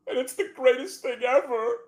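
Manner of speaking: high, loud, overwhelmed gush; mock-emotional rapture. Real, not acted. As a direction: gush like it moves you to tears. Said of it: "I'm having an emotional moment now".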